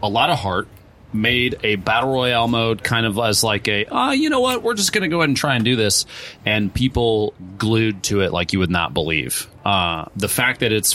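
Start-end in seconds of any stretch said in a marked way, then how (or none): 3.9-6.0 voicing Epic. Epic voiced deciding to try.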